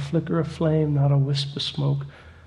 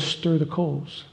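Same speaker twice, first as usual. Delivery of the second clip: soft inner voice; 6 dB quieter, slower than usual. Acted. Inner voice stirring in Ed.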